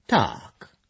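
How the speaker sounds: drawn-out thoughtful "tak"; pensive. A narrator's reading. Brąba ponders the many hidden questions, pensive. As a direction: let it trail as you ponder. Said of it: "zamyśliła się Brąba".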